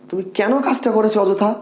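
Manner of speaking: high, scolding question; a teacher's demo of scolding; reproachful expression. Shown as a demonstration. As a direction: blame them for the needless mistake. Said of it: "এই expression দেন".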